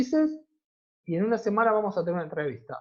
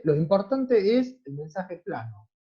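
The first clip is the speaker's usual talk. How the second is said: slow dictation. Shown as a demonstration. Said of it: "una entrevista tiene mayor impacto".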